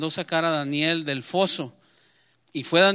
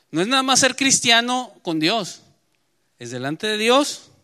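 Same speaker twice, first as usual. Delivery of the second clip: emphatic preaching; 5 semitones higher, 5 dB louder than usual. Real, not acted.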